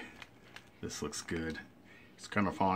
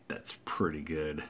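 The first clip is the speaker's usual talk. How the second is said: whispering; 3 semitones lower, 4 dB quieter than usual. Real, not acted. Whispered aside about burger.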